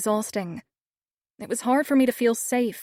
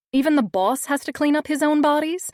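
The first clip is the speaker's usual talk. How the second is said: incredulous; 6 semitones higher, 4 dB louder than usual. A narrator's reading. Gaping in disbelief.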